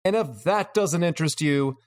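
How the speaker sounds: lightly hammed carnival barker pitch; snake oil seller. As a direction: drum up the crowd like a fairground huckster. Carnival sales pitch summary.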